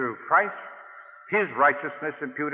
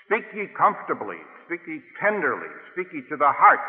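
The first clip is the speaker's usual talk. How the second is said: fervent scripture quote; 4 semitones higher, 3 dB louder than usual. Acted. Preacher quoting scripture with fervour.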